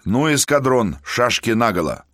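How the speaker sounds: rally the troops briskly; rousing command. Acted. Officer rallies, commanding.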